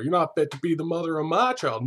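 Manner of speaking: high-pitched parting insult; mock yelling. Host imitates man leaving the house, mock yelling at her. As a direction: yell back at her, half-hearted. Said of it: "he's still yelling at her".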